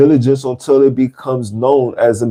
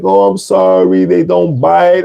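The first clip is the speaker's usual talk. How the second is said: lightly imitated owner's apology, lifting higher at the end; mock placating excuse; apologetic dog owner; 5 semitones higher than usual. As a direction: play a dog owner brushing it off. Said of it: "You know, the guy's like".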